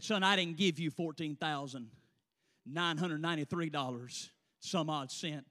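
low, soft voice of God; hushed divine correction. Acted. Holy Ghost correcting the student about his money, low and hushed. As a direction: drop low and quiet, deliberate pauses.

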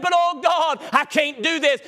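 starts high, pleading to God; pleading believer. Acted.

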